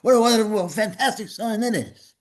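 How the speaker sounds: imitating delighted surprise at a road sign; retold amazement. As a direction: marvel at the sign, a touch overplayed. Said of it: "I was so shocked".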